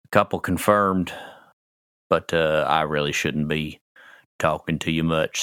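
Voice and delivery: lightly voiced, apologetic doorman; doorman character. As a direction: explain it haltingly, just doing the job. Game master plays the doorman.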